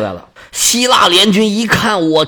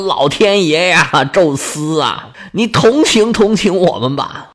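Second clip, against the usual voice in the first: pleading prayer. Acted. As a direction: beg Zeus close to tears. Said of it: "只能哀求宙斯了". (含泪哀求宙斯)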